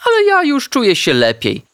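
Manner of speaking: wysoki, piskliwy głos pieska, nieco głośniej; udawana dzielność. A narrator's reading. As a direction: zgrywa zdrowego szczeniaczka. Piesek udaje, że zdrowy. (piesek Artek głośno udaje, że już mu lepiej)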